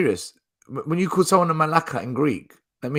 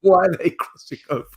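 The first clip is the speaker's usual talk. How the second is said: laughing Michael impression; imitating Michael; 3 semitones higher, 4 dB louder than usual. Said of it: "Michael commentary".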